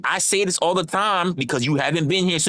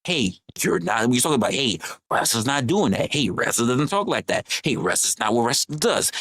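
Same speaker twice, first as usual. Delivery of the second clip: gentle; 9 semitones lower than usual. Retold or imitated. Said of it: "gracefully trying to tell you".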